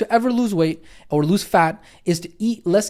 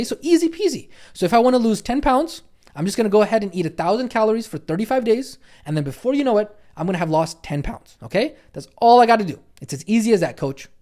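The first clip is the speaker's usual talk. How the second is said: lightly voiced student, higher pitch; a touch of breezy overconfidence, pitched up; eager student; 3 semitones higher than usual. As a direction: act like a trainee sure it will be a breeze. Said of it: "you might be thinking".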